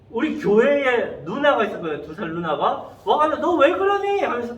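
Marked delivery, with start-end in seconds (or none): 3.4-4.2 high-pitched mock scolding; retold big-sister telling-off; scolding older sister. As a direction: scold them in a raised, higher voice. Older church girl scolds the bullies.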